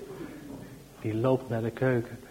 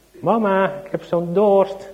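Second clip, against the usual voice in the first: put-on high, slow child's voice calling mama; sleepy little boy calling his mother; 7 semitones higher, 7 dB louder, slower than usual. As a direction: call for mama like a thirsty small boy.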